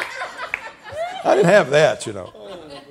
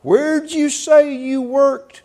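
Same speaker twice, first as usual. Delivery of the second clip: much higher, slow, laughing question; eager young man; 10 semitones higher, 5 dB louder, much slower than usual. Retold or imitated. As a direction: ask it eagerly. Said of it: "He said".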